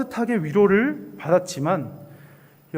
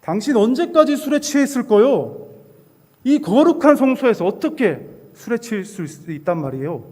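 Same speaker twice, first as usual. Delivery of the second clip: louder and higher stern rebuke; scolding priest; 4 semitones higher, 5 dB louder than usual. Acted. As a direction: scold her like a shocked priest. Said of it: "이렇게 한나를 꾸짖습니다". (꾸짖는 제사장의 높고 큰 목소리)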